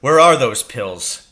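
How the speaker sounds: loud eager call; excited loud cry; cried out. A narrator's reading. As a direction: burst out with it as he jumps up. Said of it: "he cried".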